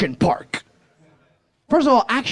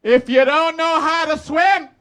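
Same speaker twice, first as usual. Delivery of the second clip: higher, slow deadpan warning; teen lifeguard announcement; 9 semitones higher, slower than usual. Retold or imitated. Teen lifeguard addressing the crowd of kids, deadpan. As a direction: announce doom like it's routine. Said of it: "he makes an announcement".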